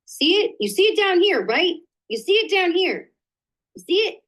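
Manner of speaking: loud, high, exasperated pointing at the screen; pointing out the missing code to viewers, loud and high. Real, not acted. Host showing viewers the broken slide, loud exasperated.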